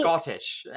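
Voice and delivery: SCOTTISH with a crisp T; emphasized T. Shown as a demonstration. Mimicking a Scottish friend's word, Scottish with emphasized T. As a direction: hit the T in Scottish. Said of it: "you emphasize the T".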